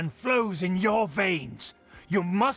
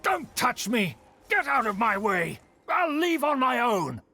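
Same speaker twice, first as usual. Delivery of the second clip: indignant protest; 4 semitones higher than usual. Acted. Uncle refuses to be handled.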